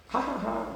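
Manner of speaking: high, soft mock laugh; small put-on ha-ha; imitated laughter. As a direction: imitate a rabbi's light laugh, quietly. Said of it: "Rabbi Akiva starts to laugh".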